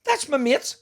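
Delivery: lightly mocked whine; high, pleading son. Son protesting to his mother, high and pleading. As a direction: squeak it like a wounded boy. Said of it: "And Mickey went".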